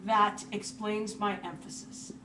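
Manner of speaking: words spaced out while writing; broken into chunks with long gaps; slow dictation. Real, not acted. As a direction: say it slowly, as if dictating. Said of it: "Let me write that down real quick".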